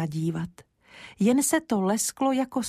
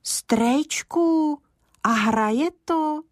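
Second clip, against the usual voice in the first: put-on hushed, high, breathless boy asking; eager whispered question; 9 semitones higher, 3 dB louder, much slower than usual. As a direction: ask quickly in an excited hush. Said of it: "honem se ptal Kája".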